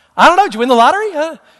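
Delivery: put-on, all-happy, upbeat tone. Retelling being told to guess, the speaker voices his past self: retelling a happy guess. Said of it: "I'm thinking all happy".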